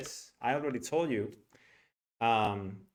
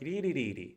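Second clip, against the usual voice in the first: "Ri, ri, ri, ri" with an upward Italian lilt; sing-song rising lilt; 3 semitones higher, much faster than usual. Shown as a demonstration. Teacher mimicking the music of Italian, lilting upward on "Ri, ri, ri, ri". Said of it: "going up".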